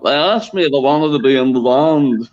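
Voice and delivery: a hint of a mid-Atlantic drummer; a famous drummer's voice. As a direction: stretch the last words in a mid-Atlantic Liverpool accent. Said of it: "Ringo has become strangely mid-Atlantic".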